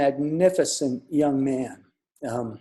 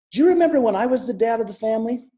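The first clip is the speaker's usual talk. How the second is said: put-on higher, louder, fast child's voice; a young son's eager question to his mom; little boy's voice; 7 semitones higher, 4 dB louder, faster than usual. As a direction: chirp it out like an excited toddler. Toddler son's quote voiced.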